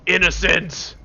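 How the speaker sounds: "Innocent!" called out loud; yell. Retold or imitated. Man imagines yelling "Innocent!" in a morgue, mock yell. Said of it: "that I yell".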